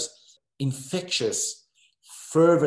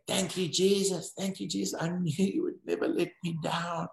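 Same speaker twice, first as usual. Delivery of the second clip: overjoyed thanks; 6 semitones higher, 4 dB quieter than usual. Retold or imitated. Man given money for his bill, thanking Jesus in high joyful relief. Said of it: "just started going".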